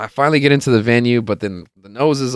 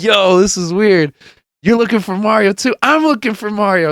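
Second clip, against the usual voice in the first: high-pitched, astonished re-enactment; retold amazement; 10 semitones higher, 3 dB louder than usual. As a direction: play up the wild coincidence up high. Acting amazed strangers' coincidence.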